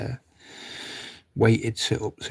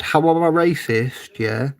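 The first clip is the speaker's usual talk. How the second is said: retold challenge; 4 semitones higher than usual. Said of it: "And I said".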